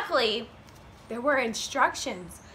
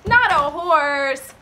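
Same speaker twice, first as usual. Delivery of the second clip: high, loud, drawn-out correction; slow, exaggerated storybook denial; emphatic no; 8 semitones higher, 8 dB louder, much slower than usual. A narrator's reading. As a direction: crow the answer to little listeners. Emphatic answer to the children.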